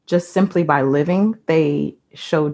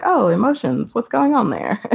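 higher, playful teasing wonder; mock curious surprise; 6 semitones higher than usual. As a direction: tease her with a lifted, curious tone. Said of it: "'cause I was like".

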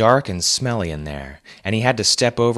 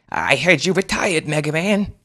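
weakly; 9 semitones higher than usual. A narrator's reading. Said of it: "the kid said weakly".

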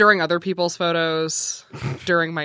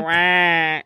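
Waluigi wah; 2 semitones lower than usual. Acted. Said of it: "she just kept going".

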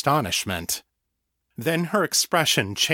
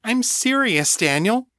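urgent insistence; 12 semitones higher than usual. A narrator's reading. Rebecca insists during argument.

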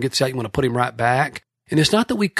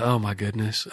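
embarrassed murmur; 3 semitones lower, 7 dB quieter than usual. Retold or imitated. Embarrassed realization, inner thought.

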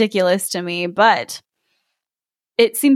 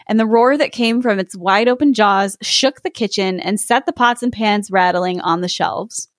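story narration. A narrator's reading. S0 reads fairy tale aloud.

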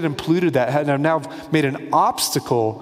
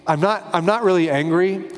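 lightly voiced breezy fake calm, a bit higher; mock casual; 4 semitones higher than usual. Jesus pretending to the temple crowd that he is not angry, mock casual. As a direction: play it as a breezy fake calm, tongue in cheek. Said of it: "He doesn't, like, lightly".

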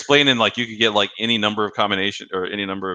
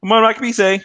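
mock ad caller; 12 semitones higher, 5 dB louder than usual. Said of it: "the other guy's like".

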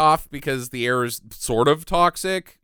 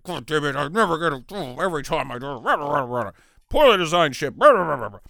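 mock tantrum. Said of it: "Ray Wise is like".

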